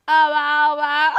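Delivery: startled loud wow; surprised. Real, not acted. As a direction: caught off guard, exclaim loudly. Reacts to a sudden sound.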